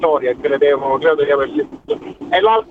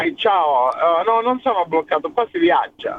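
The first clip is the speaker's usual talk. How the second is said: Italian with a Sicilian accent; natural Sicilian lilt in Italian. Real, not acted. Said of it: "chiaramente accento siciliano".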